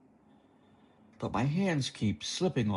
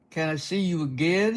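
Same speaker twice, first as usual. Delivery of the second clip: higher, eager asking; hopeful young guy; 6 semitones higher, 4 dB louder than usual. Acted. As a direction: ask it like a puppy.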